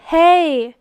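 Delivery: a high, loud hey; loud yell. Acted. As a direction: yell it out with glee. Boys yelling as kite swoops.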